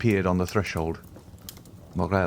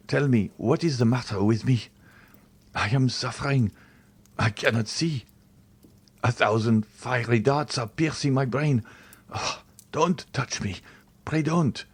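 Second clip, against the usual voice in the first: pained plea; 4 semitones higher than usual. A narrator's reading. Dying servant in pain.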